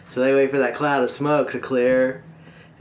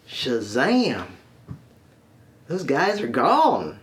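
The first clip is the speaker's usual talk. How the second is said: put-on Arkansas accent; much slower than usual. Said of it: "one guy left from Toadstock, Arkansas".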